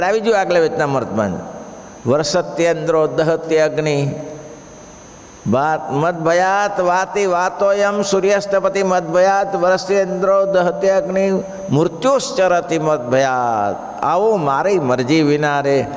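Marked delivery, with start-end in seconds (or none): 2.1-14.0 scripture recitation. Real, not acted. Reciting a Sanskrit verse.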